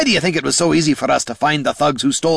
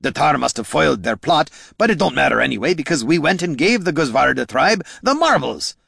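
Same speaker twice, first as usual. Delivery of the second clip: loud, higher bitter tirade; spat bitterly; 8 semitones higher, 4 dB louder than usual. Acted. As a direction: spit the words out in disgust. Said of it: "spat Gorm".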